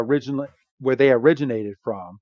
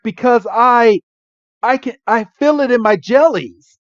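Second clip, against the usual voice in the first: high Pikachu voice; 10 semitones higher, 5 dB louder than usual. Retold or imitated. Pikachu voiced in retold scene.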